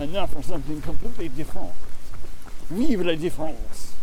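loud, quick sketch-show announcement; Monty Python. Acted. Echoing co-runner's catchphrase, mock announcer voice. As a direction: play a comedy announcer. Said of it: "I'm trying to do Monty Python".

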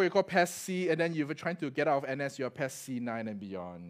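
normal talking voice

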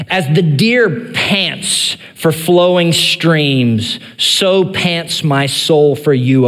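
slow, solemn reading of the psalm; scripture reading. Acted. Pastor reading the psalm to the congregation, slow and solemn. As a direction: read it slow and weighty.

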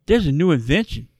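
lightly voiced cheesy movie heroine, deadpan pitch line; mock character voice. Co-host retelling a comic book heroine's line, mildly hammed up. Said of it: "I don't know why she's talking like this".

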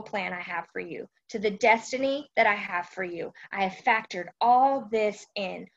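calm, unhurried reassurance; a hint of God soothing a daughter; lightly voiced God. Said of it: "he's saying".

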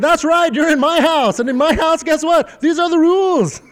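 high, emphatic laying down the law; mock stern uncle. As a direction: lay down the house rules with mock gravity. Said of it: "I said".

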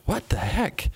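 high-pitched retold disbelief; baffled. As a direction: act out puzzled exasperation, pitch jumping up. Acts out bafflement at dead number.

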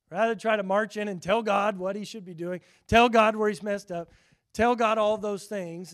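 ordinary delivery

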